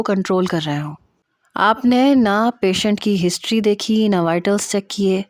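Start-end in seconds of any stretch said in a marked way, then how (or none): none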